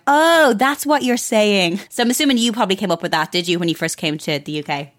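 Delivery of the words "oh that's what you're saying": dawning realisation. Retold or imitated. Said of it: "my producer was like".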